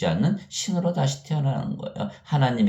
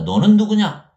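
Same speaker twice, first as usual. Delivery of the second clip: loud, high-pitched confrontational demand; defiant challenge; 10 semitones higher, 8 dB louder than usual. Retold or imitated. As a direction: throw it at him as an indignant accuser. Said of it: "유대인들이 다 대드는 거예요". (대들듯 따지는 큰 소리)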